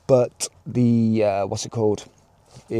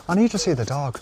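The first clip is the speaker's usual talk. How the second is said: imitating her Northern Irish accent; lightly put-on Northern Irish lilt, quoting her; 4 dB quieter, faster than usual. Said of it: "I need to stop doing the accent".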